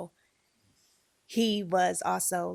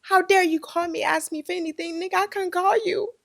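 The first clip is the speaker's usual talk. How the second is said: higher, louder bitter mock retort; 10 semitones higher, 4 dB louder than usual. Imagined bitter answer to her father calling, higher and louder. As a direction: snap back at him like you're fed up. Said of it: "I wanna be so bitter".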